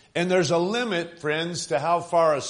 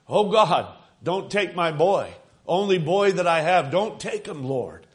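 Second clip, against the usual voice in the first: retold pleading cry; 3 semitones higher, 4 dB louder than usual. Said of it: "I was screaming to the top of my voice".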